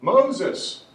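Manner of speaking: loud, high parrot call; punchy mock parrot cry; joke parrot voice. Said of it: "the parrot goes".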